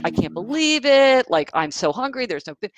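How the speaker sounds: imitating furious son. A son complaining to his hurt mother about lunch, mock furious. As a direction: act out the hungry son's outrage, lightly. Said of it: "her son was furious".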